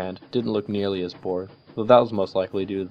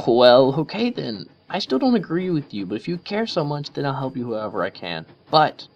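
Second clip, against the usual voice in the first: grudging Rainbow Dash; 6 semitones higher, 6 dB louder than usual. A narrator's reading.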